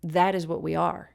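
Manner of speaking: "That" stressed, the rest falling away. Shown as a demonstration. Teacher showing how he'd say it, stress on "That". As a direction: lean on the first word, "That". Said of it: "That's probably how I would say that".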